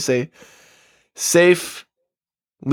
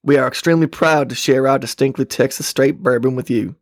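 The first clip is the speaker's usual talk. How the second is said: put-on Texas accent. Host reads bourbon label aloud, in Texas accent. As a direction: read the label like a Texan. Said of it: "read it in a Texas accent".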